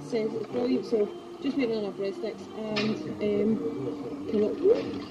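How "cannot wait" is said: high, bubbling with excitement; excited. Real, not acted. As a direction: gush like you've waited for ages. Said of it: "Oh, I'm so excited".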